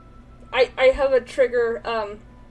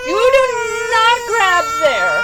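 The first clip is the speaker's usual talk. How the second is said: loud, slow, emphatic telling-off; firm scolding; 8 semitones higher, 10 dB louder, slower than usual. Real, not acted. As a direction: scold her firmly. Scolding the baby.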